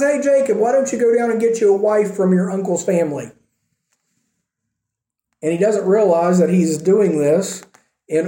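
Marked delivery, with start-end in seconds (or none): 0.0-3.3 higher, lightly voiced father calling his son; cheerful "Hey, Jacob" from an old dad. Isaac calls Jacob.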